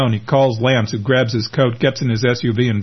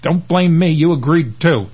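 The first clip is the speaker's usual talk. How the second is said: higher, indignant comeback; defensive retort; 6 semitones higher, 3 dB louder than usual. Acted. Friend blamed for the bad plan, indignantly defensive. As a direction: throw the blame straight back. Acted quarrel between the two fugitives.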